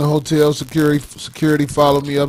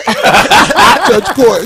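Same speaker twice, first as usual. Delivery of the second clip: put-on old man voice; 7 semitones higher, 6 dB louder, faster than usual. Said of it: "He sound like an old boy".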